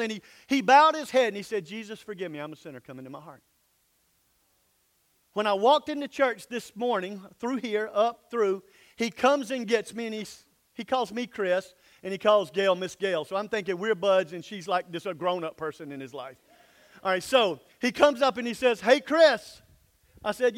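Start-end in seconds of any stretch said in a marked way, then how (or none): 1.6-3.4 quiet prayer. Retold or imitated. Child's quiet prayer retold. 18.8-19.6 louder, higher eager greeting; boy hailing the pastor eagerly; calling out. Retold or imitated.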